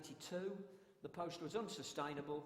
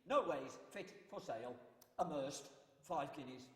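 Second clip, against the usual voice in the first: town crier. Shown as a demonstration. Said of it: "That was a court announcement".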